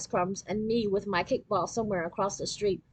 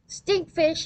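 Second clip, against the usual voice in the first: high gleeful yell of stinkfish; yelled taunt; 7 semitones higher than usual. A narrator's reading. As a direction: shout it to catch your friend out. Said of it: "he yelled".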